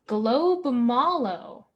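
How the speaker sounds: slow, drawn-out bingo call; bingo caller. Shown as a demonstration. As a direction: announce it slowly like a caller. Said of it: "our next one is".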